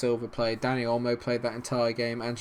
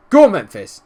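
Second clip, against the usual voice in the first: "Go on, Memphis" yelled high and loud; excited yell; 7 semitones higher, 17 dB louder than usual. Real, not acted. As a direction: scream the striker forward. Urging on his striker.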